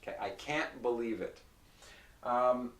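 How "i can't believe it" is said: "can't" with no T, only a glottal stop; nasal vowel then stop the air in "can't". Shown as a demonstration. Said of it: "there's no T".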